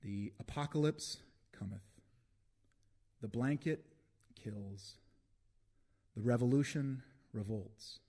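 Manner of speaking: emphatic openings falling away at line ends; poem reading. Acted. Poet declaims an apocalyptic poem to an audience, slow emphatic recital. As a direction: declaim slowly, with long pauses between phrases.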